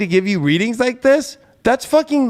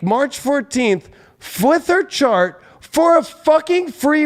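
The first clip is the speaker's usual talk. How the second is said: angry rant; 5 semitones higher than usual. Real, not acted. To viewers, about a freeloading client: real heated outrage. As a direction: pitch climbing higher in real outrage.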